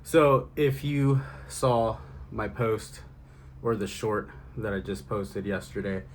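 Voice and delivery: breathless from riding, catching breath. Real, not acted. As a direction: talk while still out of breath. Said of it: "sorry I'm out of breath".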